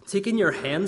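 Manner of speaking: a hint of a wise old man; lightly voiced kindly old sage.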